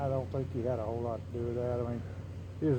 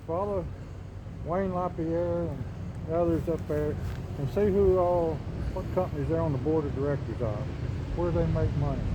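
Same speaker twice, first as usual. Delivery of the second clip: louder and more forceful, pressing each name; raised voice; 3 semitones higher, 5 dB louder than usual. Real, not acted. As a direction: lean in hard on every company name. Heated rant naming gun companies.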